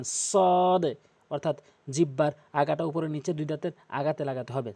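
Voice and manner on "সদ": "সদ" with tongue tip at the tooth edges, heavy s; pronunciation demo. Shown as a demonstration. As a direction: stretch the vowel of "সদ" on a steady tone. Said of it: "এভাবে উচ্চারণ করবেন". ("সদ" জিহ্বার আগা দাঁতের আগায় রেখে টেনে)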